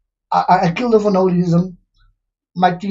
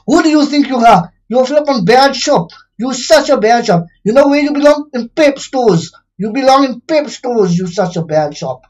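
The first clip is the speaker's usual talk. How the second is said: angry rant; 2 semitones higher than usual. Real, not acted. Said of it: "I was just angry".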